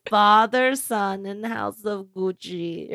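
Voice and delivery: a hammed-up Mario-brother Italian accent; playful Italian accent imitation, trailing off laughing; a pop singer's Italian accent. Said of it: "that's my best pop singer doing a Mario brother".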